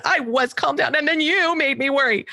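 lightly voiced indignant daughter; whiny child. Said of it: "That was one of my favorites".

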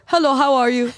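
put-on high-pitched Swiss-accented greeting. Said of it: "That's my Swiss accent".

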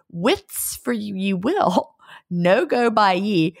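slow, deliberate Scots dialect; Scottish phrasing, stretched out; Scots saying. Acted. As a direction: savor each Scots word. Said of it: "I gotta say that again".

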